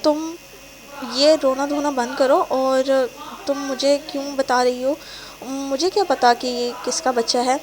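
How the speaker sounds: loud, dismissive anger; angry and careless. Acted. Boyfriend denying the child, cold and angry. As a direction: brush her off harshly. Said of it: "وہ غصے سے لاپرواہی سے کہتا ہے".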